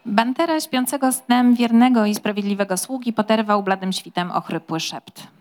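lively storybook reading of a mystery; story narration. A narrator's reading. Host reading an excerpt to the audience, storytelling voice. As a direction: read it like a novel to listeners. Reads novel excerpt aloud.

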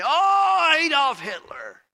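very high, loud shouted oath; hammed-up furious exclamation, slow and loud; mock angry curse. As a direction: yell the name as a mock curse. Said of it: "No one gets mad and say".

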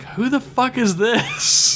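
suspicious local. Retold or imitated. Townsfolk eyeing strangers.

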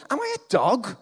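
a touch of a giant's roar; lightly voiced giant roaring; mild roar. A narrator's reading. Preacher reads Goliath's taunt to David with a light roar. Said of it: "he roared at David".

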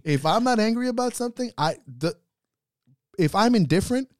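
high, loud laughing rant; half-laughing, worked-up rant. Real, not acted. Laughing rant about anger.

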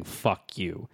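half-whispered insult, dropped low; imitated whisper. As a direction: lean in and say it under your breath. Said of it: "leaning in and whispering".

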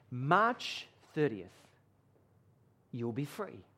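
soft, slow and hushed, as if a dream voice speaks; hushed retelling of a whisper. Retold or imitated. Preacher retelling a prisoner's dream voice, hushed and slow. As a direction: ease the words out, low and quiet. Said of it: "and he whispered".

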